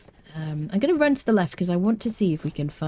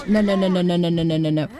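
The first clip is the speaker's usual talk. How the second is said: panicked; 5 dB louder, faster than usual. Real, not acted. Panics about dying.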